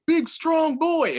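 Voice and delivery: long, high-pitched drawn-out holler; triumphant yell. Retold or imitated. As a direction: yell it out slow and loud to the whole crowd. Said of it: "I just yelled out".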